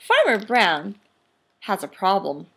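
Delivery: lively picture-book read-aloud; animated storytime narration; reading to children. A narrator's reading. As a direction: read it big for the class.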